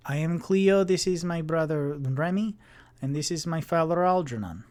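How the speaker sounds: put-on polite but guarded young were-rat; formal were-rat girl. Cleo introduces her family.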